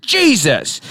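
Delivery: put-on fifty-year-old white dude. Imitating the kid who dropped something, older-dude exclamation. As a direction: blurt it like an exasperated older man. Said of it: "A fifty-year-old white dude".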